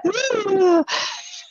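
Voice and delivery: loud, high crying gasp; hammed-up gasp of panic; panicked gasp. Shown as a demonstration. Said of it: "I'm exaggerating it".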